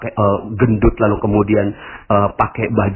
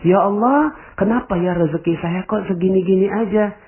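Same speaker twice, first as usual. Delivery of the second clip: complaining prayer; 8 semitones higher than usual. Acted. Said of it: "seandainya Anda sekarang ini berintrospeksi".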